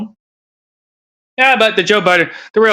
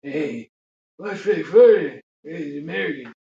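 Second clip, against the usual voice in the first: Biden whisper; 4 dB quieter than usual. Retold or imitated. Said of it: "That's how it sounds like".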